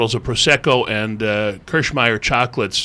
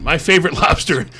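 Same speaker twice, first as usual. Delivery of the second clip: hint of the famous cook, pitched up; Julia Child; 6 semitones higher, 4 dB louder than usual. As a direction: quote her in a higher, lightly imitating voice. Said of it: "I hear this unmistakable voice".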